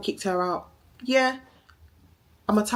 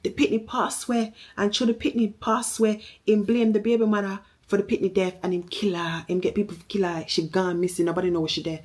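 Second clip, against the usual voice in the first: aunt revealing secret; 3 semitones higher than usual. Retold or imitated. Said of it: "Angie said".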